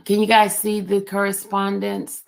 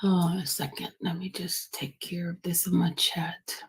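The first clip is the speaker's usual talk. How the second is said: whisper; 2 semitones lower, 5 dB quieter than usual. Real, not acted. Host muttering aside while streaming.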